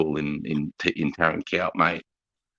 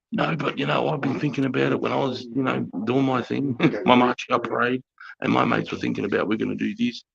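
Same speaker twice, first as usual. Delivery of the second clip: mock young lieutenant, pitched up; keen young officer; 7 semitones higher than usual. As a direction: plead your plan in a higher, youthful voice. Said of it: "these young nineteen-year-olds".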